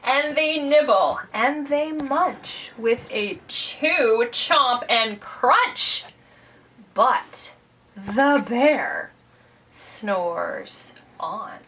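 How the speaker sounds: lively read-aloud, hushing at the end; children's story narration. A narrator's reading. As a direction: read to children, slowing and dropping for suspense. Reads a picture book to children.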